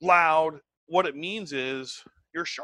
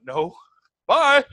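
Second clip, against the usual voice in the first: curt dismissal; 8 semitones higher, 10 dB louder than usual. Retold or imitated. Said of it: "I'd be like".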